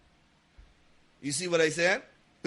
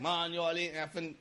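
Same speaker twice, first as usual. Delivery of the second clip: grumbling to oneself; 8 dB quieter than usual. Retold or imitated. Parent who won't curse at the children, grumbling to self. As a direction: grumble it softly to yourself. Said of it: "you're grumbling to myself".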